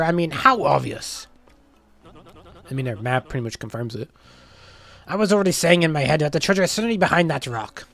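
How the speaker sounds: lightly voiced pirate crew banter; game character voices. Player voicing the shipwrecked crew's squabbles, lightly hammed-up. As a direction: read the dialogue with hammed-up flair.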